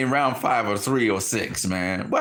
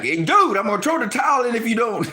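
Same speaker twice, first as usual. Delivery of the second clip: louder, higher heads-up call; mock warning; 9 semitones higher, 4 dB louder than usual. Trainer warning Wilder about the towel, louder mock call. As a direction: play a trainer loudly warning his fighter.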